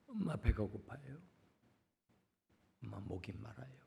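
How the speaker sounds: put-on barely audible child crying for mother; faint dying child. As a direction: let the thirsty child's voice almost vanish. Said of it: "그 아이의 들릴락 말락하는".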